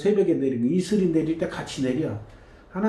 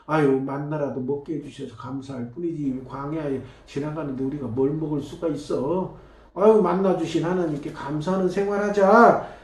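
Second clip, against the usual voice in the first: grateful voice; 2 semitones lower than usual. Retold or imitated. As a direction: say it like a thankful believer. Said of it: "이렇게 얘기하라는 거예요".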